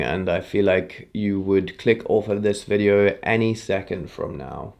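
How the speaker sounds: slow and dull, like a two out of ten; slow boring demo. Shown as a demonstration. Coach demoing a slow boring pace, flat and slow. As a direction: drag it out to show how boring it is. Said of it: "let me demo something for you".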